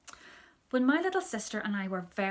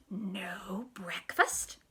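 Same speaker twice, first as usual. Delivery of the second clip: tiny voice; much slower than usual. Retold or imitated. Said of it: "in a very little voice".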